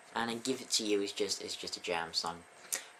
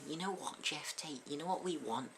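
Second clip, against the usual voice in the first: a rough stab at a Scouse rock singer; poor Scouse accent. Acted. Host doing a bad Scouse impression of a rock singer. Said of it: "such a poor Scouse accent as that".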